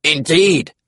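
high comic dinosaur voice; high-pitched creature chiming in; duck-billed dinosaur. A narrator's reading. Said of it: "called the duck-billed dinosaur".

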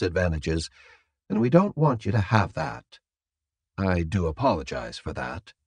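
soft, measured captor voice; composed captor. Acted. Captor explaining restraints to the prisoner, soft and composed. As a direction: explain the precautions politely and quietly.

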